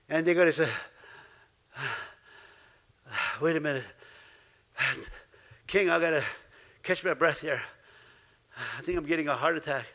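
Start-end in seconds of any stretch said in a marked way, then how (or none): 1.7-9.8 mock fearful gasp. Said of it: "where they can be fearful, they can be stressed out".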